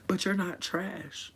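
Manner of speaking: tender. Retold or imitated. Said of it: "I look her in her eyes and I'm like".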